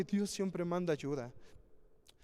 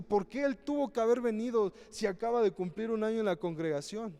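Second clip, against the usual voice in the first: mildly acted jealous grumbling, pitched higher; lightly mimicked resentful questioning; jealous complaint; 5 semitones higher than usual. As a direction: voice an envious churchgoer's protest, higher. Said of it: "o nos encelamos el decir".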